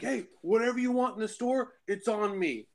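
high, laughing mock offer; generous stranger. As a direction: treat him, grinning. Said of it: "And he's like".

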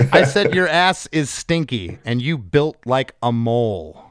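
deliberate, mock-serious reading; straight-faced recital. Shown as a demonstration. Host reciting the rude lyric to its writer, straight-faced. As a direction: hold the laugh in and recite it seriously. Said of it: "I'll try to say it with a straight face".

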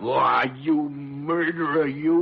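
outraged, biting out the accusation; angry accusation. Acted. Old doctor accusing the innkeeper, outraged. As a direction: hurl it at him like a charge.

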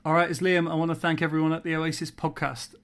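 Manchester rock-singer voice; loud, cocky Britpop singer; impression of a singer. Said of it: "a little audio message that he sent me".

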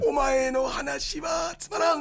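put-on slow, gruff old-man voice; Hideji Otaki impression. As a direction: growl it like a stern old actor. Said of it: "それが今一番似てる".

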